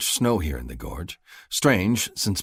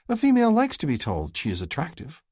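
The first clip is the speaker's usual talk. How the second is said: higher, grinning sister's voice, bossy; teasing sister Farley; 10 semitones higher, 4 dB louder than usual. Acted. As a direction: play the cheeky younger sister nudging her brother. Farley lectures.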